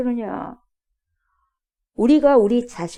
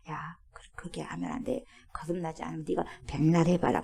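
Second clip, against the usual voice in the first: lower, whispered stern warning; hushed warning; 5 semitones lower, 7 dB quieter than usual. Acted. Jesus quietly warns Nicodemus he must be born again, hushed. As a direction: lean in and warn in a whisper.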